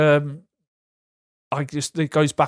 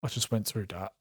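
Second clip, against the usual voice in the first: stunned inner voice; 5 semitones lower, 12 dB quieter than usual. Retold or imitated. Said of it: "I'm like".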